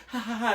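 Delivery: imitated laugh. Companion laughing at the confused viewer, imitated laugh. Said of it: "so Shannon's like".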